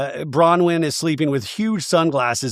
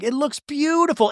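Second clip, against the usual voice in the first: airy admiring; 12 semitones higher than usual. Retold or imitated. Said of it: "Heather's like".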